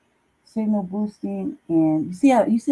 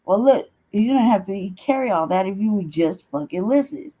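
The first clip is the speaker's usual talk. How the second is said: ordinary delivery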